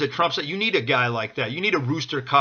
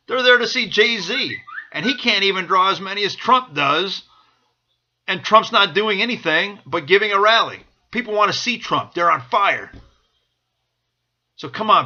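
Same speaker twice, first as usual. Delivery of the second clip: roaring rallying speech; 4 semitones higher, 3 dB louder than usual. Real, not acted. Fired-up pitch for Trump rally.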